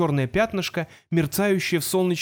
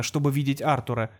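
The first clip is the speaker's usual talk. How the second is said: plain reading voice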